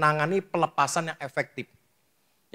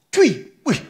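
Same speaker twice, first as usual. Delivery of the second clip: sudden loud mock spit; explosive spitting noise, played for effect; imitated spitting; 9 semitones higher, 10 dB louder than usual. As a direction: spit it out sharply, high and loud. Imitates sudden spit from possessed person.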